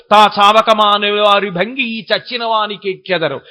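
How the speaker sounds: sonorous, evenly intoned Telugu verse; verse recitation. Acted. Preacher quoting Pothana's poem to his listeners, verse recitation. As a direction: recite it as a classical poem, on a level tune.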